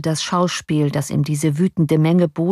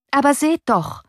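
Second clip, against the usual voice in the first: higher, urgent call; 9 semitones higher than usual. A narrator's reading. Officer calls to the young man, mild high call. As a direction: urge him to look. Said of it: "rief der Offizier".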